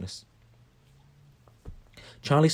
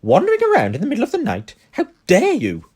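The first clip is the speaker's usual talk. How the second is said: high, loud McGonagall shout; furious shout; 9 semitones higher, 10 dB louder than usual. A narrator's reading. McGonagall shouting at Malfoy caught at night. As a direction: bellow it at the caught boy. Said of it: "she shouted".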